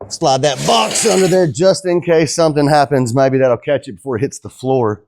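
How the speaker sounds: winded after lifting glass; talking while short of breath. Real, not acted. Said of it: "I'm out of breath".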